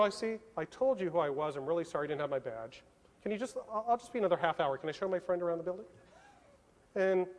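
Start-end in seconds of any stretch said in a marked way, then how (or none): 0.0-5.8 softer, casually apologetic cover story; retold calm bluff. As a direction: keep it cool, as if nothing is wrong. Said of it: "So I calmly go".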